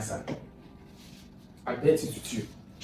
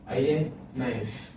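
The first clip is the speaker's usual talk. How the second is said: slow repeat; slower than usual. Shown as a demonstration.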